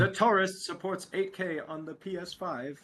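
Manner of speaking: slow, even British robot text-to-speech. Acted. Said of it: "read the super chat in the text-to-speech voice".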